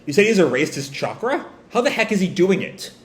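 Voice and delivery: puzzled questioning, pitch climbing. Acted. Naruto questioning Boruto about the erased chakra, puzzled. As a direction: press him for an explanation. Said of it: "Naruto kind of questioning Boruto".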